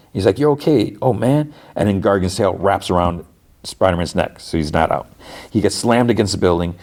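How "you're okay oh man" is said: higher-pitched acted relief; retold relief. Hero to his friend coming round, retold relief. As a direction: lightly act out relieved surprise. Spider-Man relieved Lonnie wakes.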